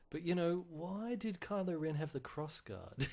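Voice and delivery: soft, high, slow mock questioning; small high voice of a puzzled fan; nagging fans. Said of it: "people will be like".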